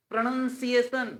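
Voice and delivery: drawn-out "pronunciation", each syllable stretched; slow careful pronunciation. Shown as a demonstration. Teacher modelling "pronunciation" slowly for students. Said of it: "not pronunciation".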